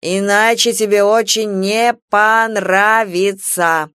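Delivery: slow, threatening tipsy anger; slow drunken threat; drunken menace. Acted. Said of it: "с хмельной злостью". (с хмельной злостью)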